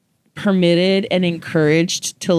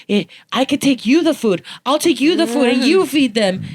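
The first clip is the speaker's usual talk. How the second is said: neighbor lady voice; 7 semitones higher than usual. Retold or imitated. Neighbor lady quoted offering.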